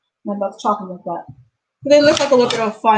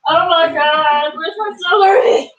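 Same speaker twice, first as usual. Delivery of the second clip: mild alarm; 5 semitones higher, 4 dB louder than usual. Real, not acted. Can't find the celery.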